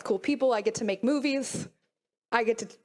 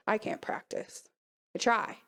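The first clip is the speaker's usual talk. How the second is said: barely voiced, slow and much softer; whispered, broken; 3 semitones lower, 5 dB quieter, slower than usual. Real, not acted. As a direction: let the words almost vanish in a whisper. Aftermath of the assault, breaking down.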